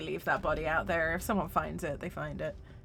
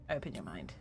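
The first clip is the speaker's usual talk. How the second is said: low, commanding echo of the voice; firm deep voice; 14 semitones lower, 10 dB quieter than usual. Retold or imitated. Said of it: "that was a very firm".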